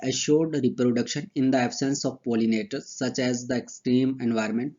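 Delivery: slow, deliberate dictation of textbook lines; dictation reading. Acted. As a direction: read each phrase out slowly so students can write. Slow dictation of English notes. (धीमी आवाज़ में notes लिखवाना)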